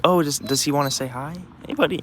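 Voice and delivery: friendly invitation. Retold or imitated. Dog owners asking if the dog wants to meet, lightly friendly. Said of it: "they were so friendly".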